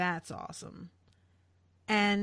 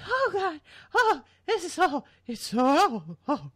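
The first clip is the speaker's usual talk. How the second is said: high, louder mock swooning girl; mock gushing girl; 7 semitones higher, 6 dB louder than usual. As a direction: gush like an overexcited dumb blonde. Imitating the waxworks girl gushing.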